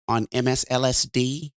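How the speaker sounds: lightly imitated talk-radio host, calm and measured; a hint of a radio host savoring the nickname on M S L S D; light, calm radio-host take on the nickname; Mark Levin's calm voice. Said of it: "but he says it like this".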